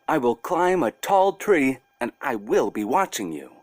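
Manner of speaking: put-on a small girl giving a bear strict orders; little girl Masha. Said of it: "and said to the bear".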